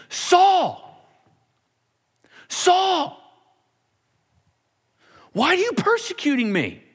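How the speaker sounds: high, drawn-out calling voice from above; divine voice. Acted. Jesus calling down to Saul from the light, high and slow. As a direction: call him like a voice from heaven.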